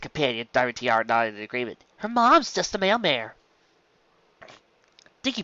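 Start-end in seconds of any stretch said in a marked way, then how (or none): 2.0-3.3 sneering filly. Acted. Bully sneers at classmate.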